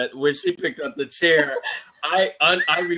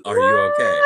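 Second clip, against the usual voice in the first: very high-pitched mimicked question; mock concern; 3 dB louder than usual. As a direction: imitate a squeaky check-in. Imitates him checking on her.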